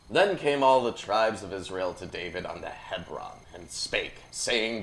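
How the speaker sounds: measured formal Bible reading; scripture reading. Acted. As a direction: read it out like a proclamation, building to the quote. Reads scripture aloud.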